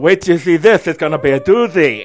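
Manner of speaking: lightly voiced servant Igor. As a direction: play it like a loyal henchman. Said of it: "Poor guy".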